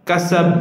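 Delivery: কাসাব with an echoing bounce on the final ব; qalqala. Shown as a demonstration. Teacher shows qalqala on the final letter, echoing. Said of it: "আরেকটা হরফ পড়ি".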